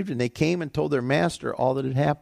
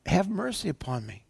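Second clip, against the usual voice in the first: softer, higher mock plea; pleading; 4 semitones higher, 5 dB quieter than usual. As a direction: plead meekly, lightly acted. Servant begging master for mercy.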